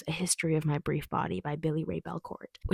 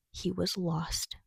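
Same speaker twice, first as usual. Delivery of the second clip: slow hushed whisper for the twist; slow suspenseful whisper; dramatic whisper; much slower than usual. Acted. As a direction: breathe it out slowly like a secret. Reading the blurb's dramatic ending.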